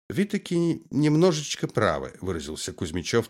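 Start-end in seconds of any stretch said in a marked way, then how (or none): 0.1-2.2 a light Odessa Jewish lilt, half-joking; Odessa Jewish accent. Retold or imitated. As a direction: mimic the Odessa Jewish twang playfully. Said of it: "тщательно копируя первомайский говор".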